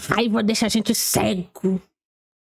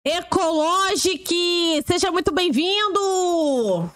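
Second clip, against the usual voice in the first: higher, slow, hammed-up announcer greeting; mock host welcome; 5 semitones higher, slower than usual. Welcoming viewers to the next video, mock announcer. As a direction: sell the welcome like a cheesy TV host.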